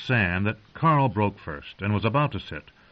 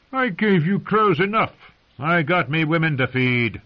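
rough, high-pitched wildling host; gruff wildling voice; 7 semitones higher, 3 dB louder than usual. Acted. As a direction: play Craster as a surly, grudging host. Craster voiced in audiobook.

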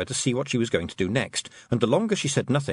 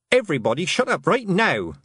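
raised, high order; exasperated raised voice; commanding shout; 8 semitones higher, 4 dB louder than usual. Acted. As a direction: silence the whole crowd at once. Tiffany silences the noisy crowd.

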